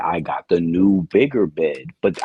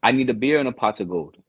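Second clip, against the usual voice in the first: badly faked Irish accent, slightly lifted; attempted Irish accent; 3 semitones higher than usual. Shown as a demonstration. Contestant trying Irish on request, off-target Irish accent. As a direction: have a shaky go at an Irish accent. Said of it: "Can you do Irish?".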